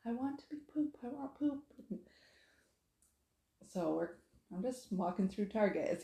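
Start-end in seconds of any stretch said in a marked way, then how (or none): 0.1-1.6 high whiny child imitation at normal volume; high-pitched pretend tantrum; mock toddler tantrum. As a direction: mimic a crying little boy without really screaming. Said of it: "he's just crying and screaming".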